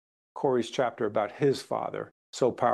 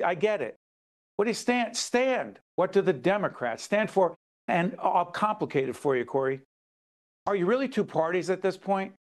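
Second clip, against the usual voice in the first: fired-up questioning; 5 semitones higher than usual. Real, not acted. Host pressing the senator on Democrats, fired up. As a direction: pitch climbing higher, pressing hard on each question. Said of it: "I heard your dad, uh, in that".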